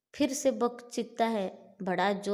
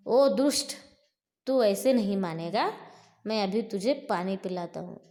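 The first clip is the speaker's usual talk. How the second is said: challenging shout; 6 dB louder than usual. Acted. Bhima challenging Bakasur, story.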